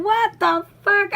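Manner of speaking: high, drawn-out shout of disbelief; re-enacted amazement. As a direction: stretch it out, loud and hyped, reliving the shock. Re-enacts stunned reaction to scene.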